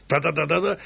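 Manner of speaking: rapid-fire "ta-da" syllables tapped out by voice; imitated table drumming. Composer mocks amateurs drumming on a table, imitated tapping. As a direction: mimic someone banging out a rhythm. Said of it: "настучу".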